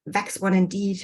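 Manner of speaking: "Wax" said as "vax" with a V at the start; V W interchange. Retold or imitated. Lecturer reading the Cockney sportsman's reply, "Wax" as "vax". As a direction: turn the w of "Wax" into a v and keep "one indeed" plain. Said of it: "again, V W interchange".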